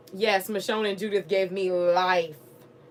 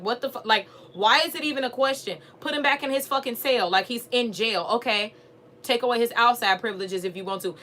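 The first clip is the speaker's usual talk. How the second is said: retold outrage; 3 semitones higher than usual. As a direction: vent like you're yelling at the TV. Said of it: "I was so pissed off".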